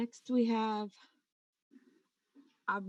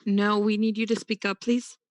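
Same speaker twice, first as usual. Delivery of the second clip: louder, deliberate request; to someone hard of hearing; 6 dB louder than usual. Real, not acted. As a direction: speak up so they catch it. Asking inaudible speaker to speak up.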